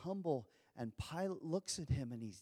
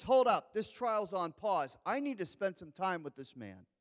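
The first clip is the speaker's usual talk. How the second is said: firm halt; 4 semitones higher, 5 dB louder than usual. Pretend. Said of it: "instead of asking more questions".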